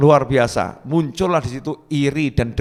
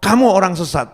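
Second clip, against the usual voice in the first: higher, louder scolding shout; shouted rebuke; 5 semitones higher, 3 dB louder than usual. Retold or imitated. Musa shouting at the brawling Israelite, higher and louder. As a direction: shout it down at the troublemaker. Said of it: "Nabi Musa teriak ngomong".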